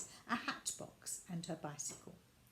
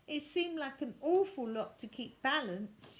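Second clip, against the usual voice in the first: worried; 5 semitones higher, 5 dB louder than usual. Acted. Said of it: "Violet looked worried".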